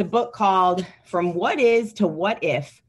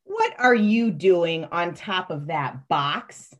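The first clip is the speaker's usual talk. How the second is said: adult voice; slower than usual. Acted. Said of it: "I'm gonna read the adult voice".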